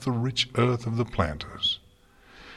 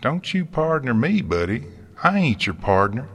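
loud country farmer squaring up; combative retort; 4 semitones higher, 5 dB louder than usual. A narrator's reading. Farmer snapping at snooty gardener, combative retort. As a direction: fire it back, loud and indignant. Applejack argues back with gardener.

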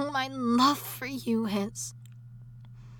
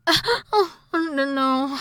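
distressed crying; 7 dB louder, slower than usual. Acted. Wife crying after screaming at her husband. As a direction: break down in remorse.

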